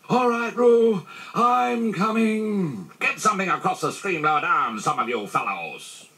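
high, drawn-out calls to others ahead; urgent rescuer's holler; calling out. A narrator's reading. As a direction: call across a distance, stretching the words. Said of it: "were calling out to the others".

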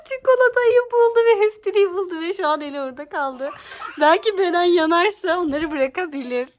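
talking through laughter; laughing voice to viewers. Real, not acted. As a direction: giggle while describing. Laughing while narrating.

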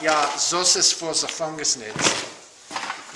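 slow, hammed-up German accent. Describing models for the nids, in a slow hammy German accent. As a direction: draw out ja, das ist für like a mock German. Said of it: "Is that even an accent? Is that German?".

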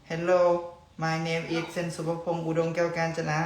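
slow, high showman self-introduction; grand stage intro, drawn out; announcer voice. Pretend. Formal self-introduction to camera. (เสียงพิธีกร)

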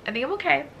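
ordinary delivery

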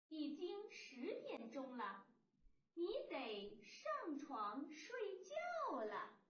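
put-on slow, careful reading for young pupils; model reading aloud. Shown as a demonstration. Teacher reads the sentence slowly for children to follow. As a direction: read each word out slowly and clearly, like a teacher. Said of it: "咱们一起来读一读".

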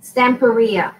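"Stamperia" with Spanish stress on the RI; Spanish pronunciation. Shown as a demonstration. Crafter correcting herself on the brand name, Spanish pronunciation. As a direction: say "Stamperia" as stam-peh-REE-ah. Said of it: "I'm pronouncing it in Spanish".

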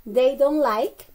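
slow model phrase, pausing for repetition; teacher's drill, in separate chunks; repeat-after-me model. Shown as a demonstration. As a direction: say it slowly for students to repeat. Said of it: "Repeat after me, please".

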